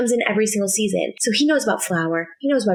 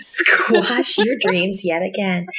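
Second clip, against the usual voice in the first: mock villain. Teasing rival about dream job.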